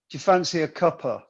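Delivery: "cuppa" run together as one casual word; casual British phrasing. Shown as a demonstration. Showing how to ask close friends for tea, casual "cuppa". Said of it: "you'd say".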